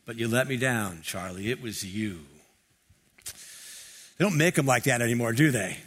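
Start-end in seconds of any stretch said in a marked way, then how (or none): 0.1-2.2 Brando's Terry Malloy. Retold or imitated. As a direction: lightly replay the washed-up fighter's lament to his brother. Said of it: "I love On the Waterfront".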